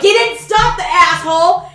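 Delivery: high, loud accusation; furious yell. Retold or imitated. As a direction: blast him while running. Yelling at passerby.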